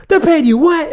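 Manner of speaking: high, loud "what" of disbelief; outraged disbelief. Retold or imitated. Buddy calls back, shocked at the pay. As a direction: demand it again in shock. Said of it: "he goes".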